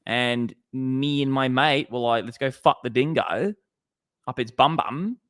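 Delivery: hammed-up Aussie mate quoting; Australian twang, lilting phrase endings; Australian accent. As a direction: spin a mock Australian yarn. Continuing the Australian mock yarn.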